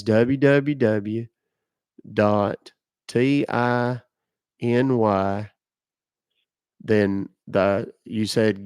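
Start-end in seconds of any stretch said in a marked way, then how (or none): 0.0-5.5 slow read-back, letter by letter; dictating. Shown as a demonstration. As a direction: spell each letter back slowly. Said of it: "read it back to me from the beginning".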